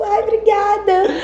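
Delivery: high, drawn-out mock-gushing voice; flattered thanks. Guest thanking grandmother for a compliment, gushingly flattered.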